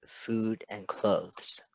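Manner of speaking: slow, stunned blank repeat; dazed slow echo; blankly. Acted. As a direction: echo it back, numb with disbelief. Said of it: "Patton said blankly".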